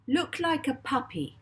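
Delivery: high, firm command; a boy testing a hypnotised man; demanding command. Acted. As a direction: bark it as an order. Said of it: "he demanded".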